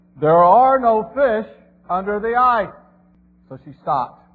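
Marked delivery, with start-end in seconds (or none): 0.2-2.7 loud, booming bellow. Telling a joke, a voice from the heavens answers the woman cutting holes in the ice: bellowing. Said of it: "a voice from the heavens bellowed".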